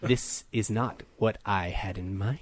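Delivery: slow, low, faintly sultry displeasure; lightly sultry. Acted. Android grabbing the repairer who underpaid, lightly sultry. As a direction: stretch it out low with a touch of sultriness. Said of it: "I'll do a sultry voice".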